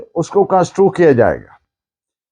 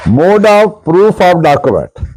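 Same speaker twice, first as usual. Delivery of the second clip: slow, louder heading read out; announcing a heading; 2 semitones higher, 3 dB louder, much slower than usual. Shown as a demonstration. Lecturer announcing the next topic to his class, slow and emphatic. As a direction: lay out each word like a chapter title. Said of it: "teacher announcing new topic heading".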